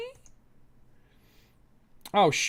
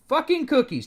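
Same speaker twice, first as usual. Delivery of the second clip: annoyed curse; 8 semitones higher than usual. Real, not acted. Swearing at website pop-up.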